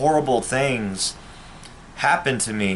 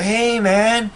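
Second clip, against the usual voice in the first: higher, lightly mocking fake-friendly voice; mocking fake buddy; 5 semitones higher than usual. Vlogger imitating former friends who want back in, mock-friendly voice. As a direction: imitate a phony old pal, sweet and hollow.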